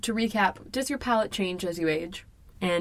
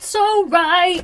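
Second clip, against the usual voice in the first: so right squeaked high and loud; high mock voice; 10 semitones higher, 8 dB louder than usual.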